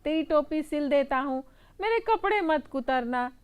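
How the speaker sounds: high, loud, fearful giving in; scared tailor. Acted. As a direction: beg the mouse to spare the cloth. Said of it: "दर्जी डर कर बोला". (डरे हुए दर्जी की ऊँची आवाज़)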